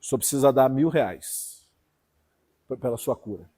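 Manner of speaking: low, soft, coaxing con-man voice; swindler's voice. Retold or imitated. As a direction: mimic the greedy healer murmuring his price. Mocking a swindling faith healer.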